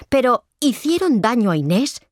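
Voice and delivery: concerned brother pressing for an answer; worried question. A narrator's reading. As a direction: ask it with alarm, pitch jumping up. Brother asks if sister was hurt.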